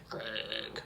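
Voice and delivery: "Craig" low and soft, vowel swallowed; attempted British pronunciation. Shown as a demonstration. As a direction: trail a low, quiet "Craig" as a test. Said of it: "like, a British accent anyway?".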